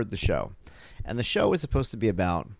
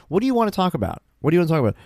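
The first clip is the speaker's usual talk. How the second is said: raised, insistent retold question; louder, higher mock frustration; retold exasperation; 6 semitones higher, 6 dB louder, much faster than usual. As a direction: replay a dad at the end of his rope.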